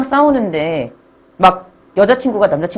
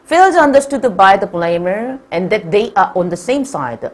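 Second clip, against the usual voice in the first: slow text reading; much slower than usual. Acted. Reads English passage slowly.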